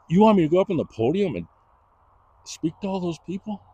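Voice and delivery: high, fast disbelieving panic; mock-panicked disbelief at speaking to a crowd; retold panic. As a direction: blurt it out in alarm, pitch climbing.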